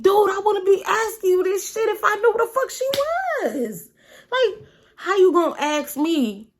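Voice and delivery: loud, high exasperated retort, easing at the end; irritated. Retold or imitated. Snapping back at Mike over the missing friend, irritated. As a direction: reenact being fed up with a stupid question. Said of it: "So I'm irritated off of that".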